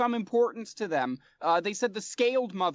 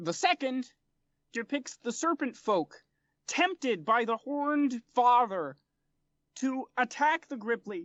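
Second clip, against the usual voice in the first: gripply, croaky frog creature character voice; 3 semitones higher than usual. The interpreter rolls out a second cylinder and explains it: gripply interpreter voice. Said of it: "But the interpreter listens and turns to you and says, / and they confer in the Gripply language for a moment before he turns back to you and someone and says, / The interpreter turns to someone, and th".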